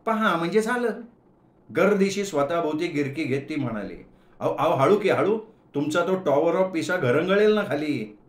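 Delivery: put-on annoyed young woman. Shubha scolds Gaju about the vada in her hair, sharply. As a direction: tick him off while twirling.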